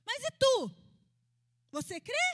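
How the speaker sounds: high, loud "mas e tu?"; Jesus loudly turning the question back on the father; sudden loud challenge. Acted. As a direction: throw the question right at him.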